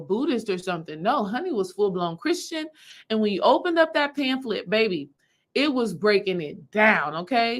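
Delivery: normal talking voice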